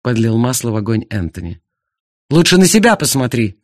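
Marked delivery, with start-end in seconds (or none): 2.3-3.6 loud, higher snapping comeback; jealous husband snapping at the rival; blurted retort. Acted. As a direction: fire it back at him fast. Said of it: "выпалил Артур".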